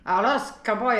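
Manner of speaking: imitating a Spanish accent. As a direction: roll it like a native Spanish speaker. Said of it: "saying it with an accent".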